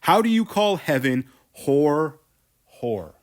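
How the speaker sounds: loud, raging cry of whore at her; furious scream. Acted. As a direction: scream it as he grabs her hair. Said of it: "He leaps at Abigail on one oh nine and screams".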